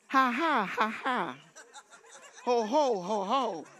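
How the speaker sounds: measured, spoken ha-has and ho-hos; deliberate laugh, falling away; demonstrated laughter. Shown as a demonstration. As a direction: model each laugh syllable evenly. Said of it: "You need to laugh".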